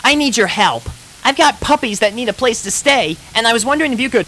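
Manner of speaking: high, loud, pleading pony; Rainbow Dash voice. Acted. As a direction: ask a friend for shelter. Rainbow asking help.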